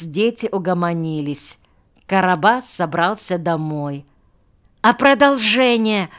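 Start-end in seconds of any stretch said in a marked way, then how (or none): 4.8-6.1 put-on high, louder pleading kid; piping child's request; little child. A narrator's reading. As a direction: beg like a small child. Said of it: "уцепился за руку малыш".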